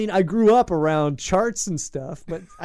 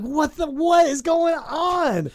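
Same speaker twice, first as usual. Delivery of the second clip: alarmed shout; 11 semitones higher, slower than usual. Retold or imitated. Retold panic at the police call.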